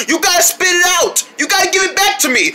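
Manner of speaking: high, fast urgent yelling; demanding shout. Acted. Demanding ball back.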